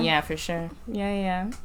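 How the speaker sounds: dry sarcastic agreement. Pretend. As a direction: say it like you don't mean it. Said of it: "Being sarcastic".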